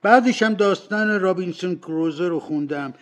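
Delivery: high, loud, excited exclamation; emotional happy outburst; laughing-crying cry. A narrator's reading. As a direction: blurt it out, overcome by the memory. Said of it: "میان گریه خندید و فریاد زد".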